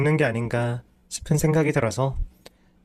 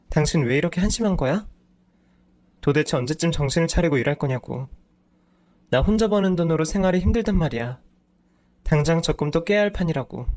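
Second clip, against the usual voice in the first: higher, escalating scolding; nagging wife; 3 semitones higher than usual. Acted. Wife berating her husband over money, escalating scolding. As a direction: pile on the reproaches.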